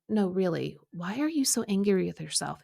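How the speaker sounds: calm, understated insistence; quiet, calm, loving. Retold or imitated. God asking her a second time about her anger, calm. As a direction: press the question gently and evenly. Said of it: "it was quiet and calm and".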